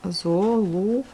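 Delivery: slow, drawn-out syllables with gaps. Shown as a demonstration. Teacher writing the word out for pupils, slowly syllable by syllable. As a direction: stretch each syllable as if writing it out.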